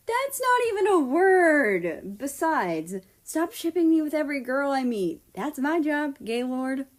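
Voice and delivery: a lightly voiced girl, caught out and squawking back; flustered young woman. A narrator's reading. Japan's flustered protest.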